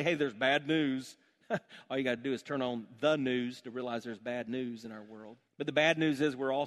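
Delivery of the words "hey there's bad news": slow announcement. Shown as a demonstration. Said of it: "It starts this way".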